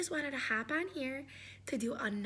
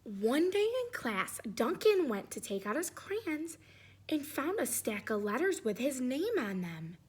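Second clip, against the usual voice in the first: put-on reading to children. A narrator's reading. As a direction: open the tale gently for the kids. Reads story opening to class.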